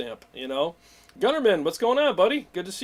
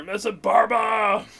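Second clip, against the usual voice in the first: hammed-up Italian accent, louder and higher; mock Italian flourish; 7 semitones higher, 8 dB louder, slower than usual. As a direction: toss the name off with a playful Italian accent. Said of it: "it's got that Italian accent".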